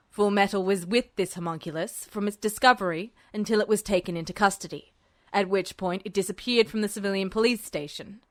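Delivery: a hint of a menacing general. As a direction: drop into a low menacing register. Voices Tanaka.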